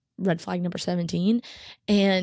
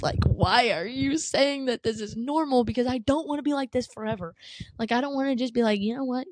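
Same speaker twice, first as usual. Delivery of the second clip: higher-pitched, pleading pushback; retold exasperated protest; 4 semitones higher than usual. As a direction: protest it as you felt it then.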